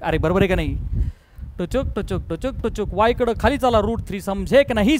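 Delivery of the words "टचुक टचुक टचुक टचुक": tchuk-tchuk hopping noise. Shown as a demonstration. Teacher counting steps to the left, soft tchuk noises. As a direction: quietly click out each little hop.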